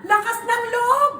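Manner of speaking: preaching shout. Real, not acted. Preacher rallying the congregation, in a full-voiced shout. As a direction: call out faith to the hall.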